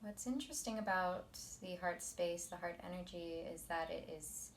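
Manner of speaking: soft, measured meditation teacher voice; quiet, unhurried guidance; guided meditation. Acted. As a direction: ease them into calm, leaving long pauses. Leads the meditation.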